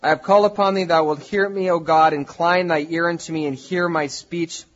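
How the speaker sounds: measured, slow Bible reading from the pulpit; solemn, projected verse reading; scripture reading. Real, not acted. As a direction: declaim the psalm with deliberate phrasing. Reads the psalm aloud.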